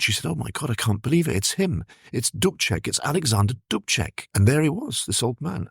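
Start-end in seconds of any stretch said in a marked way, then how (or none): 0.3-4.3 retold amazed disbelief. Blanca tells her companion who appeared on the balcony, retold amazed disbelief. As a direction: imitate stunned recognition, lifting the pitch. Retold cry of astonished recognition.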